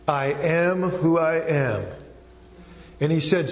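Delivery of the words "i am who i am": very slow, measured and emphatic; solemn scripture reading. Real, not acted. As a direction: give each word of the verse its weight. Preacher reading God's name from Exodus.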